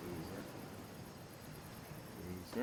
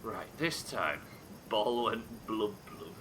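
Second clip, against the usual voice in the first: Baptiste's voice; 4 semitones lower, 5 dB quieter, slower than usual. Retold or imitated. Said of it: "That sounded really good in Baptiste's voice".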